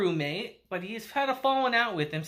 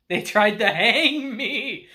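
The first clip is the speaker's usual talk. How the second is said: laughing punchline; 5 dB louder, slower than usual. Retold or imitated. Uncle's grim punchline.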